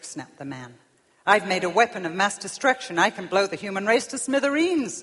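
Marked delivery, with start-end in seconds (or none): 1.2-5.0 boastful, louder voicing of the man; getting excited. Self-made man boasting to God of his weapon, excited. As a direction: boast with rising force. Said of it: "the man was getting excited".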